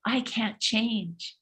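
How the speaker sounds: slow soft tempting murmur; a mild mock devil's whisper. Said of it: "the devil whispers".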